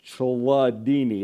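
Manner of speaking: "Chladni" sounded out slowly as chla-DEE-nee; careful pronunciation. Shown as a demonstration. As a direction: draw out each syllable of "Chladni", with a DEE in the middle. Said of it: "I didn't, like, stutter there".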